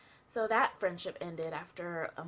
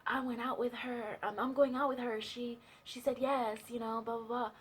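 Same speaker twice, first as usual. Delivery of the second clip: mock excited boy; 3 semitones higher than usual. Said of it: "he was so excited".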